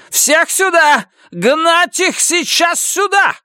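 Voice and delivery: high, slow screaming officer; shrieking furious major. A narrator's reading. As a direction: shriek the accusations down the line. Major orders men out.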